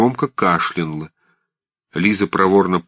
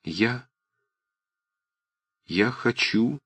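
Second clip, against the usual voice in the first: faltering hush; 3 semitones higher, 6 dB quieter, slower than usual. A narrator's reading. Liza faltering.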